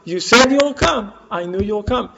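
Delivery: put-on a child's earnest certainty, rising in pitch; trusting child's insistence. Son to mother at the train station, trustingly insistent.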